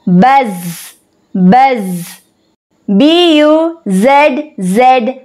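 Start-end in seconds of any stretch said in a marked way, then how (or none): 0.1-2.2 low-pitched buzz with a lingering z; bee's buzz. Shown as a demonstration. Teacher showing what sound a bee makes, low humming buzz. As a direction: hold the final z like a bee. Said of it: "What sound does a bee make?".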